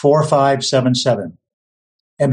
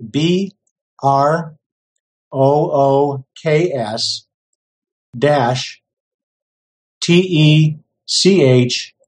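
slow letter by letter spelling; spelled slowly; much slower than usual. Shown as a demonstration. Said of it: "I'll spell it slowly".

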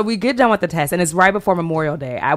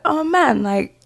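a hint of Ben Carson; Ben Carson impression; 10 semitones higher, slower than usual. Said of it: "doing a Ben Carson impression".

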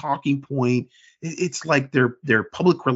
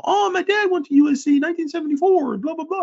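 much higher, fast whiny fan impression; mock entitled fan; faster than usual. Mocking a banned fan complaining to the moderators. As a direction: ham up the indignant old-school fan.

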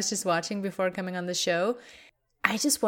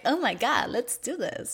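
mildly higher, mock-eager hype; overexcited intro; 5 semitones higher than usual. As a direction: gently send up an overeager show opener. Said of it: "that intro sounded very like".

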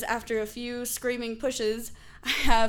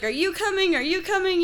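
mildly frantic, raised pitch; imitating a mom in a hurry, higher voice; freaking out; 8 semitones higher, faster than usual. Mom hurrying her daughter along, mildly freaking out. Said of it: "she's all freaking out".

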